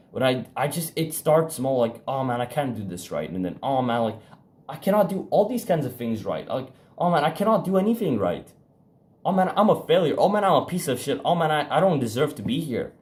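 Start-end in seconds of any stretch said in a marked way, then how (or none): 2.1-12.9 imitating a mild spiral of panic that rises line by line; understated self-pity building toward a breakdown; spiralling self-talk. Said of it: "it goes up and up and up".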